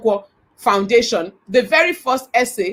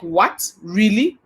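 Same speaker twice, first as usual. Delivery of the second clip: two short rising questions; retold surprise; slower than usual. Boss learns where her staff member lives, retold surprise. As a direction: react in mild disbelief.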